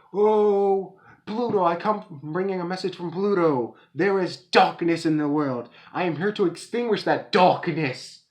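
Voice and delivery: high, grandiose proclamation; a self-important cult messenger announcing doom; pompous prophet. Retold or imitated. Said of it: "spouting out random stuff like".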